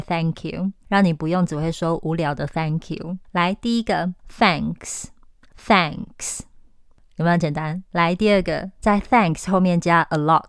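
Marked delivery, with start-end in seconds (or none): 4.4-6.4 whispered demo of thanks. Shown as a demonstration. 老师示范发音. (轻声耳语示范)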